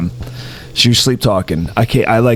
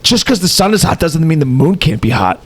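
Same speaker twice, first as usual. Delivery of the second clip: a touch of mock indignation; mildly huffy retold protest; imitating annoyed sleep-talker; 3 semitones higher than usual. Boyfriend retells sleep-talker arguing about the moon, mildly indignant. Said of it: "then she gets mad".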